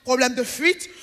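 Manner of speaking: lightly imitated commercial voice-over with a rising end; a hint of TV-ad announcer. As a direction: say it like a mock advert question. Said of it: "quand la voix off, elle dit".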